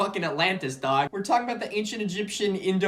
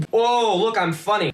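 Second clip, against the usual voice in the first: self-mocking; 6 semitones higher than usual. Mocks own slip of the tongue.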